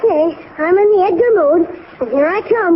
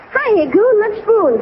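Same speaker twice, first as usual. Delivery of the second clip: higher, brash and breezy with a laugh; too abrupt; 5 semitones higher, slower than usual. Pretend. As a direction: blurt a cheeky pickup line, half laughing. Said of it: "That's too abrupt".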